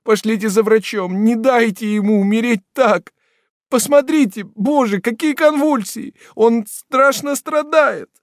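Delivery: very high and loud weeping plea; tearful begging. Acted. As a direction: implore the men through tears. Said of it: "молила несчастная, заливаясь слезами".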